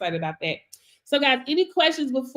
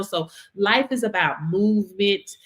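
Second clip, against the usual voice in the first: ordinary delivery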